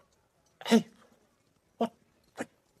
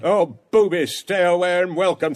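mocking Lydia's reply; 7 dB louder than usual. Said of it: "says she".

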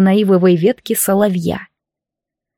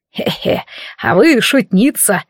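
put-on giggling old man; slower than usual. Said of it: "хихикнул старик".

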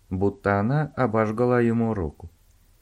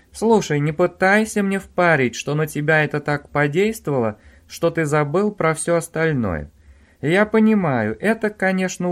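raised, insistent female voice that won't let go; pushy woman on the phone; 7 semitones higher, 4 dB louder than usual. Acted. Sheila on the phone to Owen, demanding and insistent. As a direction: press him hard, she won't be brushed off.

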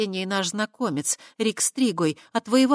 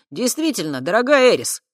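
mock sweet; 5 semitones higher, 8 dB louder than usual. A narrator's reading. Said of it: "состроив умильную рожу".

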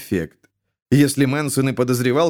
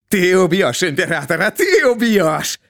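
frantic accusation; 5 semitones higher than usual. A narrator's reading. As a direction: still half asking, pressing hard. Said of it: "Шут не спрашивает, а приказывает".

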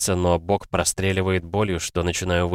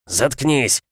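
shout; 6 semitones higher than usual. A narrator's reading. Father yelling at son, first take. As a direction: bark it at your son. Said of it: "орёт краснея".

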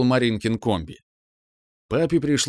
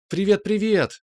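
much higher, excited squeal of greeting; squealing yell; 9 semitones higher than usual. A narrator's reading. Little sister greeting her brother, excited squeal. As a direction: yell hello with delight. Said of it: "завопила она".

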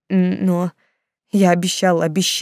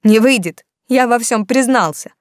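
shout; 5 semitones higher, 7 dB louder than usual. A narrator's reading. Artyom shouts at mother.

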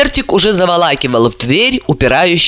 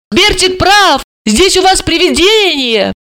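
high-pitched mock cry of alarm; retold cry; 12 semitones higher than usual. A narrator's reading. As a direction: imitate a frightened cry without much volume. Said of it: "кричит".

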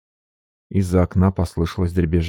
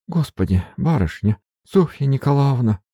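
higher, wailing maid; mild wailing; 7 semitones higher than usual. Acted. Maid Marfa wailing at her mistress leaving. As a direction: cry out her mistress's name. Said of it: "Марфа взвыла в голос".

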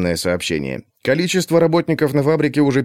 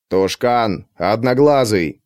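metallic voice; slower than usual. Acted. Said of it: "позвал я металлическим голосом".

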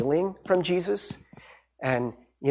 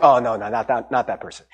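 reluctant protest; 6 semitones lower than usual. Retold or imitated. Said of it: "then you're like".

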